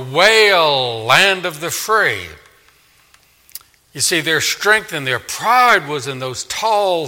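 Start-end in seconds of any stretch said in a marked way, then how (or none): 0.0-2.3 stretched loud wail then slower; loud prophetic call. Acted. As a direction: cry it out to the nation. Preacher voicing God to America.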